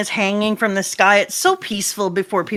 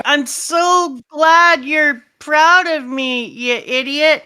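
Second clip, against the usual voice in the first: tag; 4 semitones higher, slower than usual. Acted. Scopper to proud child, acted.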